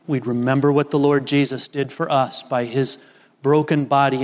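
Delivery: earnest pastoral prayer. Acted. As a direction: pray it over the congregation. Pastor leads communion prayer.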